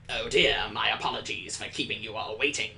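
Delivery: a light hint of a polite teacher; teacher apologising to waiting class; teacher's voice. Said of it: "I'm doing the same voice".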